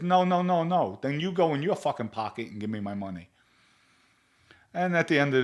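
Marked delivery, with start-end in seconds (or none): 0.0-3.3 angry refusal. Retold or imitated. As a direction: cut him off sharply, then rattle off the demand. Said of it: "Vinny rips into him".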